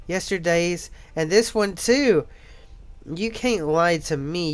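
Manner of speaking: bright, eager schoolgirl; lightly voiced excited girl; cheerful girl voice. Voices Sayori in visual novel.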